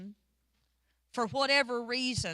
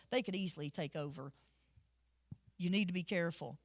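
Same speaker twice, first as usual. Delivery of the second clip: lower, hushed worried advisor voice; wary servant warning; 5 semitones lower, 3 dB quieter than usual. Retold or imitated. Pharaoh's men warn Pharaoh, low and worried. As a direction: warn the boss in a low, careful voice. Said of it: "Pharaoh's men are like".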